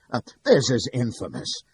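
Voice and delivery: roaring. Acted. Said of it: "roars Anderson".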